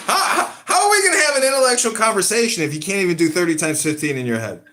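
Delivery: mock him while laughing; laughing disbelief. Real, not acted. Host mocking co-host's mental math, laughing loudly.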